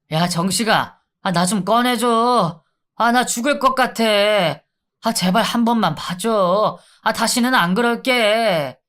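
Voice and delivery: pleading inmate. Acted. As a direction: beg to be let out, whimpering.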